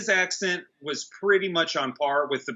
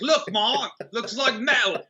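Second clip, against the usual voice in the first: put-on higher, chirpy voice of a kid boasting to mom; proud kid showing off; 5 semitones higher than usual. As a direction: pipe up like a kid proud of his homemade costume. Proud homemade chainmail kid.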